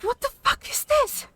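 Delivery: high, stunned "what the fuck" of disbelief; shocked disbelief. Retold or imitated. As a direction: voice jumping high in outraged shock. Reacting to the book's ending.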